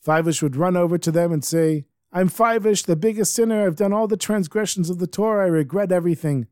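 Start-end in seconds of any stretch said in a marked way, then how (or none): 2.1-6.5 high acted confession in one run; urgent confession. Fivish runs up to whoever enters the shul, high urgent confession. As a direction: blurt it out urgently, pitched up.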